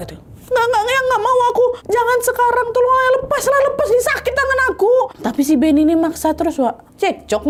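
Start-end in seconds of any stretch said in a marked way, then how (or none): 0.5-4.9 high tearful protest, fast at the end; crying refusal. Acted. Pregnant wife crying at husband to let go of her arm, high and tearful. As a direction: plead to be let go through tears.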